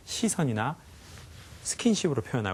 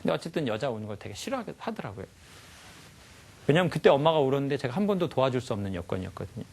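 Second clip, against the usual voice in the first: usual speaking voice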